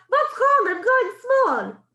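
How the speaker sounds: high, loud alarmed squeak with a laugh; the tall boy shrinking, crying out; high cry in witch voice; mock cry of a boy. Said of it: "cries out".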